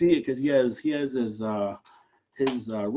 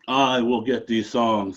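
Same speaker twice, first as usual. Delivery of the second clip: eagle voice; 3 semitones lower than usual. Acted. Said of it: "An eagle flew down".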